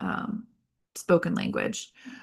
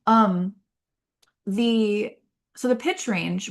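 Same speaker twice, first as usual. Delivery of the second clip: ordinary delivery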